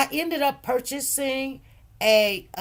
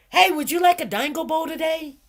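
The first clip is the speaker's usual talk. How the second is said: food truck pitch; 6 semitones higher, 4 dB louder than usual. Pretend. Vendor hawking to customer.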